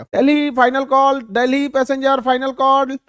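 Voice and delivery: loud final call announcement; announcer calling out. Retold or imitated. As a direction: call the final boarding loudly. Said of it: "वो चिल्लाएगा वैसे ही वहां पे". (ऊँची आवाज़ में फाइनल कॉल की घोषणा)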